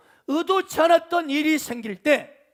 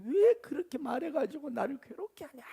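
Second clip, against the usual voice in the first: softer, mock parental scolding; understated acted rebuke; retold nagging reproach; 5 dB quieter than usual. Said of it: "압력하고 막 나무라는".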